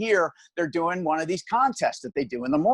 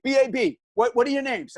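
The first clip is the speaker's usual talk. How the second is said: much higher, brisk DJ voice; radio DJ; 7 semitones higher than usual. Retold or imitated. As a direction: answer the line like a morning DJ. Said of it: "he's like".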